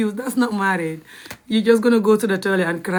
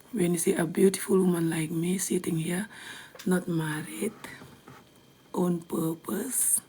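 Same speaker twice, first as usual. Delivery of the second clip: teasing whisper; 7 dB quieter than usual. Real, not acted. A sly whisper to the haters she is taunting. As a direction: whisper it slyly, drawing out the last words.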